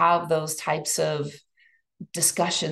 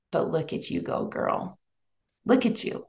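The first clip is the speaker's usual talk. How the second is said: whispered cheer. Real, not acted. Speaker cheering on the listener in a hushed voice. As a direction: whisper praise to yourself. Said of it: "cheering herself on".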